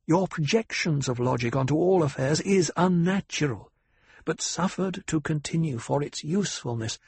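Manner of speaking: lightly voiced commanding noblewoman; cool noble lady.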